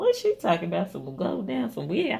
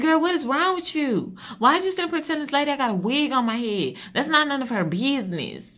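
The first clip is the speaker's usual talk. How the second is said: fussing at daughter; 7 semitones higher than usual. Retold or imitated. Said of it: "heard me fussing out".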